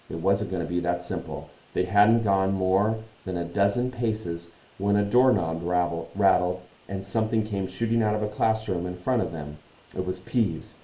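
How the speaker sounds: measured storytelling narration; story narration. A narrator's reading. Reads the story aloud.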